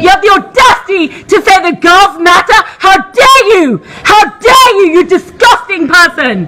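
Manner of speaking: crying indignant scolding; tearful outrage. Real, not acted. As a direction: let the outrage break into tears. Outraged accusation.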